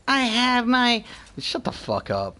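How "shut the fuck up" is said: low, soft grumbling under the breath; quiet disgusted muttering at teammates; muttered insults. Real, not acted.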